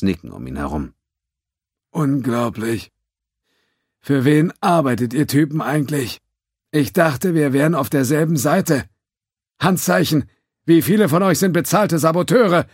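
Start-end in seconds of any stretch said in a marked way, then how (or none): 1.9-12.7 higher, louder exasperated sarcasm. A narrator's reading. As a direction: scold the team bitterly. Judge venting sarcastically at team.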